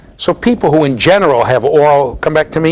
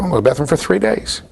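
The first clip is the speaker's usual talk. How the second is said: put-on stubborn toddler; 11 semitones higher than usual. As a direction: stretch out the no like a dug-in kid. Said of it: "some kids who literally".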